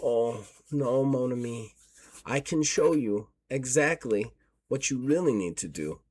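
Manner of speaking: lightly voiced Frenchwoman; a hint of a French accent, softly spoken; French-accented woman. Mysterious woman offering the player guidance, light French accent. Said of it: "beautiful woman's voice with a French accent".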